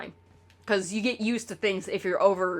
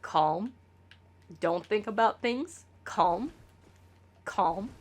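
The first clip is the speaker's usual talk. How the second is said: calming mantra; 2 semitones lower, 7 dB quieter, slower than usual. Retold or imitated. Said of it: "And just be like".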